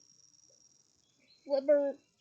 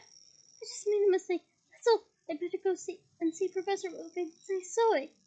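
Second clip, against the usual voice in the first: higher, flustered insistence; 5 semitones higher, 4 dB louder than usual. Acted. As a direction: brush it off, high and rattled. Hermione flustered, covering up.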